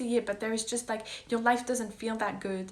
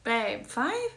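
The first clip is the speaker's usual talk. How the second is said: playful disbelief; 3 dB louder, slower than usual. Retold or imitated. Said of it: "I'm like".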